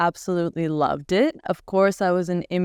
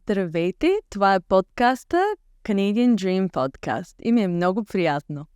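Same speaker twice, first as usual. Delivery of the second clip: greeting the podcast audience in Bulgarian; a warm, natural host welcome in Bulgarian; speaking Bulgarian. Shown as a demonstration. Asked by the host to say the welcome in Bulgarian. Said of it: "How can you say, "Good morning, everybody".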